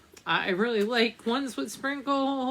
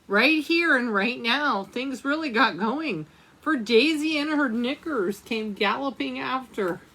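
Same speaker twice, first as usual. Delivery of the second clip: lively storybook reading voice; reading to children. Acted. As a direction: read it aloud like a picture book. Reads a picture book aloud.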